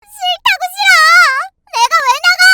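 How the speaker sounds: very high, loud, rapid screeching; furious sister-in-law. Acted. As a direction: screech back in a tantrum. Sulking sister screams back from room. (악쓰며 떼쓰는 시누이)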